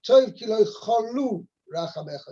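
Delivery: "cholu" landing hard on LU, cho-LU; stress on second syllable. Shown as a demonstration. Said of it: "emphasis is on the second syllable".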